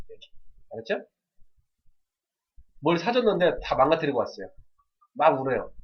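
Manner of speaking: normal talking voice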